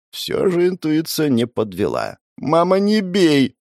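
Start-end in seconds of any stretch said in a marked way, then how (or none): 2.4-3.5 put-on high, slow childish plea; whiny child. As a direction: play a kid begging mum. Hero plays scolded child. (детским писклявым голосом, протяжно)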